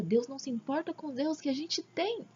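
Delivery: mock astonished echo, rising at the end; espanto imitado. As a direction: repeat it as others' incredulous reaction, voice climbing. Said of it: "Aí todo mundo fala, "Nossa". (imitando o espanto de todo mundo)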